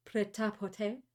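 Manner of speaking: put-on tentative try at a French accent. Reader trying the French accent a note requested, French accent. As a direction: offer the French with a questioning rise. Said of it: "say this with your best French accent".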